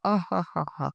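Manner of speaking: acted scoffing laugh; mocking laugh. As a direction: laugh off the idea, teasingly. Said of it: "అని ధీరజ్ అయితే నవ్వుతూ ఉంటాడు".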